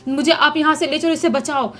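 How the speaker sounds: wife in panic pointing out the burned ghost; frightened pleading. Retold or imitated. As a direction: beg him to look and save you. Terrified wife begging husband.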